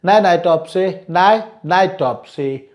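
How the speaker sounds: "Nai nai" with a single T linking into "topsy"; one T only. Shown as a demonstration. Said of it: "only one ta is spoken".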